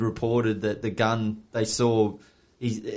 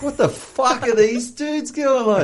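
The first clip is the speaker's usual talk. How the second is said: retold panic; 11 semitones higher, slower than usual. Retelling his panic at police.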